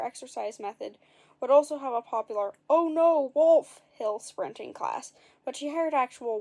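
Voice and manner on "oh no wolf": loud, high cry of oh no wolf; frightened shout for help; alarmed cry. A narrator's reading. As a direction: yell it out in fright. Character cries wolf in story.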